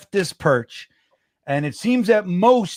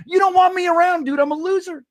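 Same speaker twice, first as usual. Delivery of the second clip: mock despair; 12 semitones higher, faster than usual. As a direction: cry out at the screen in fake defeat. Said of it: "I'm like".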